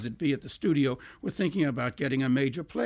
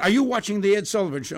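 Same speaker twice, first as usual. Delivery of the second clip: higher and louder, thrilled; excited phone call; 6 semitones higher, 6 dB louder, faster than usual. Retold or imitated. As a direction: blurt it out, can't contain yourself. Brother calls, thrilled about a singer.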